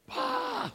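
high, soft "ah" imitating the girl; imitated "ah". Imitating the girl Rachel for listeners, high soft "ah". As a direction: put on a high little "ah". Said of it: "like this".

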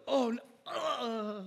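hammed-up "oh no" trailing into a groan; mock cry of doom; mock dying cry. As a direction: play-act being caught and killed. Acts out the failed Ephraimite being killed.

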